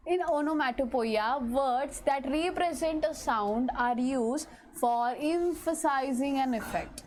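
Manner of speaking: reading the definition out slowly; slow dictation pace for notes. Shown as a demonstration. Teacher to students, reading the definition slowly. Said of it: "first we will read the definition".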